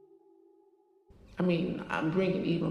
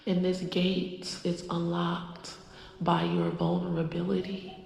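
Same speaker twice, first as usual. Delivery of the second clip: channeled goddess voice. Acted. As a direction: speak as a spirit passing through you. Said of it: "She wants to come through".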